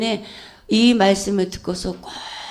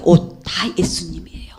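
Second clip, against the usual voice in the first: whisper; 4 semitones lower than usual. Real, not acted. Whispered aside in testimony.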